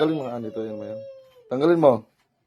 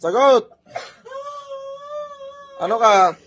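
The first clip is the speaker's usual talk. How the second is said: shouted interrogation; slower than usual. Real, not acted. Healer demanding what the spirit is, shouted interrogation. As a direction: demand the answer with a raised voice.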